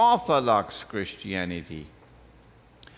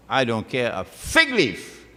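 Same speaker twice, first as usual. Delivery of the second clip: real indignant outburst, louder on fig leaf; raised voice; 4 dB louder than usual. Real, not acted. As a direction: raise your voice in defiant dismissal. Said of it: "Sorry for raising my voice".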